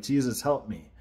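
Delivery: "Jesus, help me" tossed off lightly, with no conviction; casual, half-hearted plea. Shown as a demonstration. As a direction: say "Jesus, help me" quickly, as if it were nothing. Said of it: "You can't just be like".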